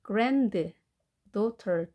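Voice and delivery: "granddaughter" in two parts, grand, then daughter; split compound. Shown as a demonstration. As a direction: sound the D and T in "granddaughter", pausing between the words. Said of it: "D는 발음되지 않겠습니다". ("granddaughter"를 grand와 daughter로 끊어서 발음)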